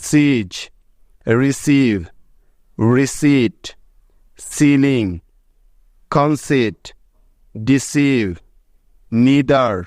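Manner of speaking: each word said clearly on its own, with a long ee sound; English example words. Shown as a demonstration. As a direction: read out slowly one by one, as a model for students. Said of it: "যেমন দেখো". (ইংরেজি শব্দে লম্বা ঈ উচ্চারণ স্পষ্ট করে বলা)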